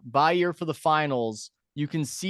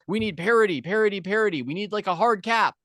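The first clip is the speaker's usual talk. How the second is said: mock whiny fans; 5 semitones higher, 4 dB louder than usual. Mocking fans' complaints.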